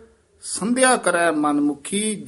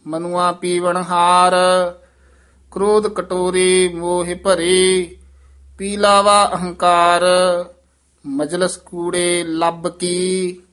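measured chanting recitation of Gurbani; scripture recitation; 4 dB louder, slower than usual. Shown as a demonstration. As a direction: recite each phrase slowly and evenly.

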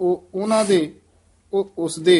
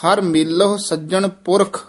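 phrase ends on ਪੁਰਖ with a full stop; pause after ਪੁਰਖ; 3 semitones higher than usual. Shown as a demonstration. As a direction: rest after ਪੁਰਖ before going on. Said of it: "ਇੱਥੇ ਵਿਸਰਾਮ ਲਾਉਣਾ ਹੈ".

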